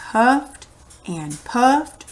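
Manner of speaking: slow, winded delivery; out of breath. Shown as a demonstration. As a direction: puff it out breathlessly. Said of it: "So they were out of breath".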